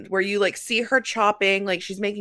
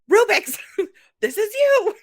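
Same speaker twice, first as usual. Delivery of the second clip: laughing; 11 semitones higher, 5 dB louder than usual. Retold or imitated. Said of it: "I was like".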